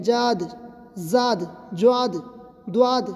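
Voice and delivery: جاد, زاد, جواد, دواد as the mistaken forms; wrong pronunciations. Shown as a demonstration. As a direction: say the wrong versions plainly. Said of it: "ہم اس کو اس طرح نہیں کہیں گے".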